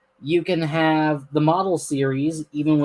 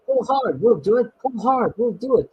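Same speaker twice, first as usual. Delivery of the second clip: rhythmic chant, higher pitched; puffing together; 7 semitones higher than usual. Acted. Two engines pulling together, puffed rhythmic chant. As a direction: chug the words in steady rhythm. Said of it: "they puffed together".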